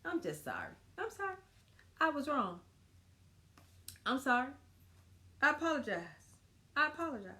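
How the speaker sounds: plain, earnest sorry set against the snippy one; mean every word of it; sincere apology. Shown as a demonstration. To her husband, the right way to apologize, sincere. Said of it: "he didn't like it that much".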